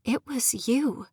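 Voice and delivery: slow and halting, a touch distant; slow realisation, each word weighed. Acted. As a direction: let it dawn on you slowly. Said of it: "I said slowly".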